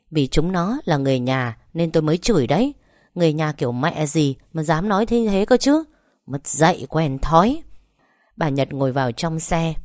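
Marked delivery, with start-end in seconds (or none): 0.1-7.6 heated scolding, voice jumps on the last words; a wife snapping back at her husband, still cursing; angry cursing. Acted. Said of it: "không ngừng chửi bới". (bà Nhật chửi bới giận dữ)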